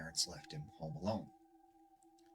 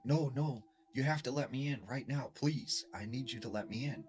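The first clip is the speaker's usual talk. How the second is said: put-on higher, louder insistent girl; 5 semitones higher, 3 dB louder than usual. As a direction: demand to be let in, urgent and pitched up. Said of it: "the girl responds".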